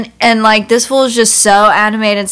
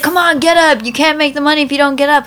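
higher, fast pushy hustler voice; scammer's pushy pitch; 6 semitones higher, faster than usual. Retold or imitated. Scammer urging narrator off train seat, high pushy hustle. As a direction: hustle him to get up quick.

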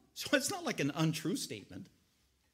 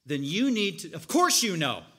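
bossy order; 5 dB louder than usual. Retold or imitated. Martha ordering Jesus.

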